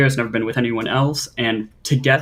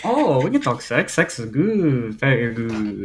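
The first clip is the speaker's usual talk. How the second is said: put-on Russian accent. Caller mimics Russian host.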